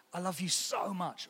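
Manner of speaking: soft, tender I love you so much; gentle loving whisper-soft line. Shown as a demonstration. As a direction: say it softly like to a loved one. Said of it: "that word so is really emotive".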